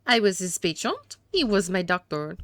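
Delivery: hammed-up French accent for a haughty suspect. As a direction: play a disdainful gentleman with a badly faked French accent. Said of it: "these atrocious accents".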